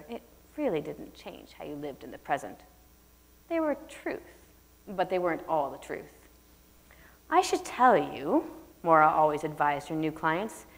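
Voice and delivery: measured audiobook reading; lightly voiced author's reading; story narration. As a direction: read the prologue calmly aloud. Author reads her prologue.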